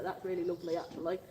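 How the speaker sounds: mock Yorkshire accent for a contented pig. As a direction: voice the animal as a pleased Yorkshireman, lifting on the requests. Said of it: "I don't know why he's from Yorkshire".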